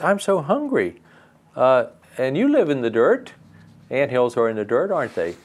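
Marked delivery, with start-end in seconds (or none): 0.0-3.3 high, pleading little fairy voice. Acted. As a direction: beg like a tiny hungry fairy. Fairy speaks to ants.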